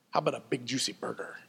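low, soft, quick sly offer; Satan tempting. Retold or imitated. Satan tempts the fasting Jesus with a sly, soft offer. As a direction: dangle the burger like a tempter. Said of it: "first thing Satan says is".

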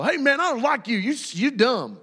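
lightly voiced stranger, starting high; mock blunt stranger. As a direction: toss out a silly insult as a stranger.

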